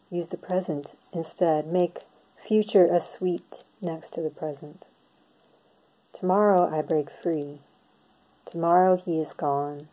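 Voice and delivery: measured poem recital with pauses between lines; poetry reading. Acted. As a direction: read it line by line, letting each phrase land and fall. Reads own poem aloud.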